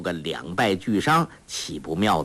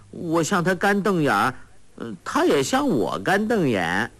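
put-on simple-minded girl; 4 semitones higher than usual. Sha Gu continues story.

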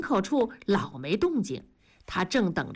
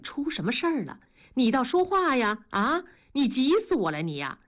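焦急连声追问；急切地拔高声音连连追问；急得团团转地追问；丈夫搂着哭泣的妻子焦急追问; 5 semitones higher than usual. Acted. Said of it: "一连声地问".

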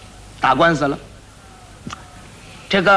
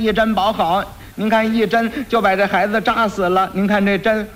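put-on lightly raised old woman's voice; grandmother's plea; 4 semitones higher than usual. Grandmother pleading her case before the county magistrate, lightly raised voice. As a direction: plead your grievance to the judge.

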